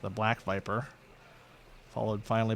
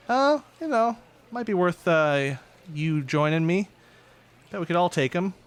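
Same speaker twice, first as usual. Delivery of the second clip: high, louder taunting call; shouting villainess; 7 semitones higher, 4 dB louder than usual. Acted. Red viper shouting from the central hall, high and loud. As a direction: shout it across the hall, cocky.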